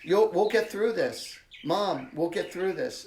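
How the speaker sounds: proud, rallying daughter. Retold or imitated. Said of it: "She goes".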